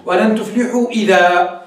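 slow, ending ولن تفلحوا إذا on a long a, idhaa; reciting the verse to show the alif pause; pausal alif on idhaa. Shown as a demonstration. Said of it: "إذا وقفت هكذا".

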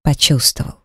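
ordinary delivery

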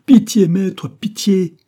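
terrified servant begs master for pity; desperate plea for mercy. A narrator's reading. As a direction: scream for mercy.

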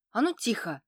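резко, громче: «А ну тихо!»; цыкнуть на обоих детей; sharp hush. A narrator's reading. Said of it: "цыкнула на обоих". (резкий окрик)

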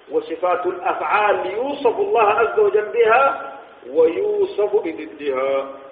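slow, measured dictation of a rule; formal definition recitation. Shown as a demonstration. Teacher giving students the rule on divine attributes, formal slow recitation. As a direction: recite the definition deliberately, drawing out each phrase.

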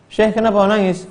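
high, puzzled student asking; curious student. Acted. Student asks the weeping sheikh why he cries, puzzled and high. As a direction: ask the sheikh gently why he weeps.

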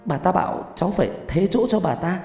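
put-on high, agitated child's voice; frightened child. Sick child refusing to leave for fear of that woman, frightened.

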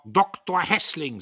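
loud, high, drawn-out correction; stern insistence on rank; sharp. A narrator's reading. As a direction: correct him sharply, stretching the title. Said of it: "sagte Diederich scharf".

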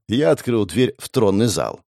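plain reading voice

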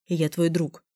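plain reading voice

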